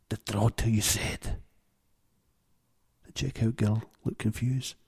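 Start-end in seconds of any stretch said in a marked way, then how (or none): 0.1-1.4 gravelly pirate voice; husky pirate voice. A narrator's reading. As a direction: growl it like an old pirate. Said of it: "assumed a pirate-like tone, his voice husky and gravelly".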